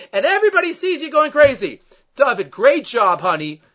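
loud mocking sarcasm; sarcastic. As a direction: scold him with biting sarcasm.

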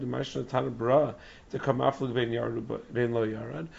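hoarse, strained lost voice; straining through a lost, hoarse voice. Real, not acted. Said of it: "I lost my voice".

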